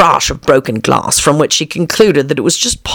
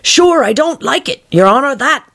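reluctant Pat; 9 semitones higher than usual. A narrator's reading. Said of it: "whispers now and then".

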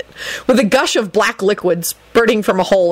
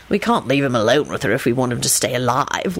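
bored; 6 semitones lower than usual. Acted. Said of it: "in a bored voice".

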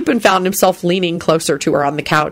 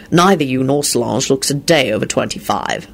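lower, understated sincerity; truthful, sincere; 4 semitones lower than usual. A narrator's reading. Lupin reassuring Elizabeth about her age, sincerely. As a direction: say it as simple honest fact. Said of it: "he added truthfully".

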